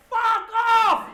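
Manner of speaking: booming high-pitched shout; hammed-up divine yell; voice of God. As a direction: thunder it down like an angry deity. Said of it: "just like God said".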